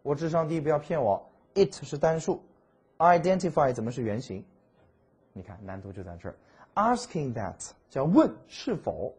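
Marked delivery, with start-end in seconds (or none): 0.0-4.4 lightly voiced student protesting, higher and louder; a hint of a baffled pupil, pitched up; imagined puzzled student. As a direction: play a student's mock objection to the teacher. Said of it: "你说朱老师，我智商低，不要骗我".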